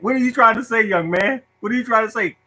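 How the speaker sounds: mock an impatient cafeteria lady hurrying a kid; impatient lunch lady. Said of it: "The lunchroom lady looking at me like".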